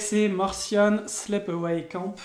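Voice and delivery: English name in a heavy French accent; slow, clumsy French-accented English. Real, not acted. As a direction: Martian Sleepaway Camp said with a thick French accent, slowly. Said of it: "avec mon bel accent, euh, français, euh, dégueulasse".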